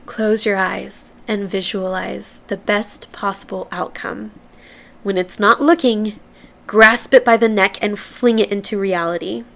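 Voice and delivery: expressive quote reading. Acted. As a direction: open like a calm visualization, then punch the ending. Reads out favorite tweet.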